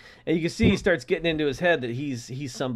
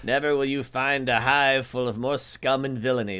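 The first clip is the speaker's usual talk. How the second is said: Obi-Wan; 3 semitones lower than usual. Retold or imitated. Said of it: "the way that Obi-Wan described".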